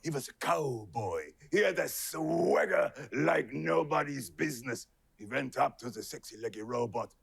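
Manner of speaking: lightly voiced noir narrator; a touch of hard-boiled narration; noir detective. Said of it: "detective drama".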